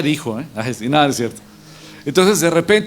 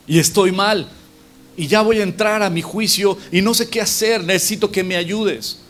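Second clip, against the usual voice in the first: higher-pitched urgent appeal; acted pleading; 5 semitones higher than usual. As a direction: play someone begging a friend before trial. Acted plea to the friend for help.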